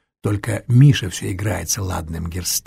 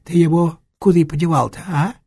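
hunchback swindler voice; 6 semitones higher, 4 dB louder than usual. A narrator's reading.

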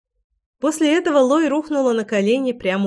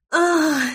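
cry out; 8 semitones higher than usual. A narrator's reading. Лой cries out under her lover's touch, high and short. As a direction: let out a brief, high "ah". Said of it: "закричала Лой".

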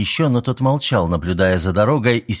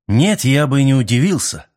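irritated; 6 semitones higher, 4 dB louder than usual. A narrator's reading. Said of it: "раздражённо ответил Мэлори".

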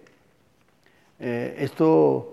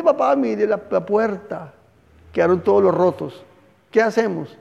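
put-on upset child; 4 semitones higher than usual. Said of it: "se pone a llorar. Dice".

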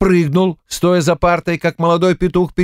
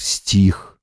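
ordinary delivery, nothing marked

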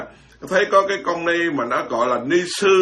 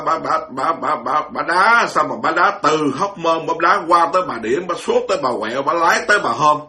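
mocking imitation. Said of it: "Cái miệng bà".

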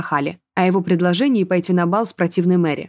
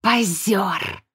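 scoffing snort. A narrator's reading. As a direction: snort the word at the show-off. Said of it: "фыркнул Сарван". (фыркнув, вполголоса)

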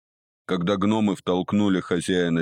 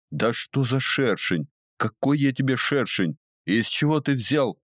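higher-pitched, indignant questioning; indignant protest; 7 semitones higher than usual. A narrator's reading. Businessman objecting to the nickname, indignant and high. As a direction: pile up the questions in rising indignation.

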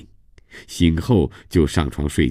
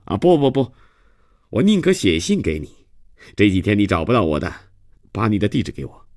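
speaking up aloud; 4 semitones higher than usual. Acted. Gaoen fends off Christophe's return visit, speaking up aloud. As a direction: pipe up to put him off. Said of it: "又高声地说".

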